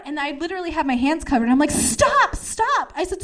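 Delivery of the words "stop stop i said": high-pitched protesting stops; retold plea. Hands up against the smoke, high protest. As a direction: cry out stop, pitched way up.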